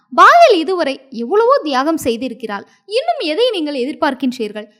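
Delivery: mild angry outburst, quickening; a touch of a roar, rushing the question. Acted. Prince angrily confronting the lake voice, mild mock roar. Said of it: "என்று கர்ஜித்தான்".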